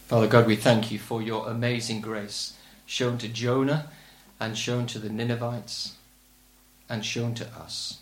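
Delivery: low-pitched, measured prayer to God. Real, not acted. Preacher asks God's help in this crisis, praying. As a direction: lead the congregation in earnest prayer, pitched low.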